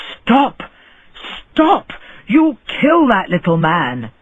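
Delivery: rising, urgent cries of stop; alarmed shout. A narrator's reading. Neighbour yelling at the rich man to stop kicking, alarmed. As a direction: call out to halt the kicking.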